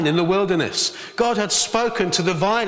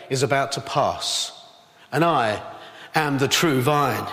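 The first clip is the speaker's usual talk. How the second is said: low solemn declaration; 5 semitones lower than usual. Acted. Jesus quote dropped low.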